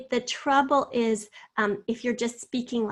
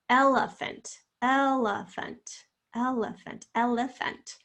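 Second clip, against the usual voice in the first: syllable by syllable. Shown as a demonstration. Teacher sounds out syllables slowly.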